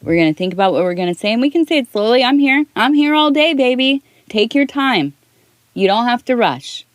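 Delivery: put-on high, gentle and reassuring, calming a rushing child; mother soothing her excited daughter, tender and high; soothing mom to daughter. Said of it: "I tell her".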